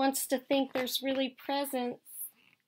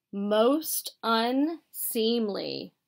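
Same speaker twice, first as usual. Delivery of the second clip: stuffy bear voice; much slower than usual. Acted. Bear disapproves of presents.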